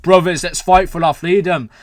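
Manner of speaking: attempted OPA accent, lightly put on; rough go at a rallying OPA accent; Miller's OPA accent. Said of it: "I'm not gonna try speaking the accent".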